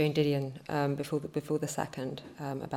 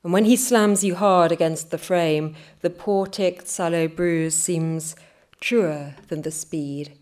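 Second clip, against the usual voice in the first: rhythmic, deliberate poem reading; poetry reading; 4 dB louder than usual. A narrator's reading. Poet reading her New York poem to listeners, rhythmic. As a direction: lean into each line like a poet on stage.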